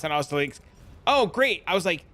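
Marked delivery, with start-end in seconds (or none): 1.1-1.6 high, feigned pleased reaction; put-on cheery relief, pitched up; mock delight. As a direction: play along as if delighted. Feigns delight, baiting the scammer.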